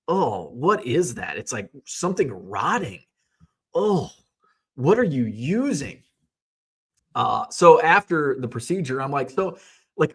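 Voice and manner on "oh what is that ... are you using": acted disgust. Patient smelling something rotten during drilling, acted-out disgust. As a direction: recoil from a foul smell, re-enacted. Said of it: "the most disgusting smell".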